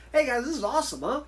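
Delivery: rally the crew with enthusiasm; excited chumminess. Retold or imitated. Newcomer chatting up everyone on set, excited.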